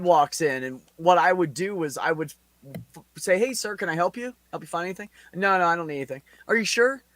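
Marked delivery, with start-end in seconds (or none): 3.4-7.0 mock-sweet customer service voice, a bit higher; overly helpful clerk. Clerk smothering a suspected thief with mild mock-sweet helpfulness. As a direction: pile on the politeness to annoy him. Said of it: "I over customer service the shit out of him".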